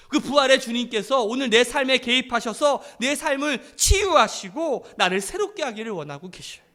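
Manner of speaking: forceful preacher's exhortation; impassioned preaching. Real, not acted. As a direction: press hope on the congregation, phrase by phrase.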